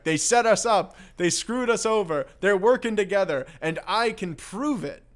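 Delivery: hammed-up righteous insistence; mock indignant protest. Ray Duquette ranting to the cops that he was set up, mock indignant.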